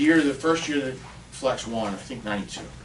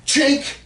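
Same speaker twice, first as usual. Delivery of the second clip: high, loud clicking chink; high chink sound effect; 8 dB louder than usual. Retold or imitated. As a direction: snap it out like metal.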